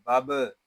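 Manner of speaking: बब with a clear echoing bounce on the final b; qalqala on बब. Shown as a demonstration. Teacher shows qalqala on the saakin ba, बब with bounced b. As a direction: release the last b of बब with a bounce. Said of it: "इसमें कलकला खूब जाहिर करेंगे".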